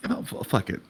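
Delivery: whispered give-in. Acted. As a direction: breathe it out unvoiced. Sebastian gives in.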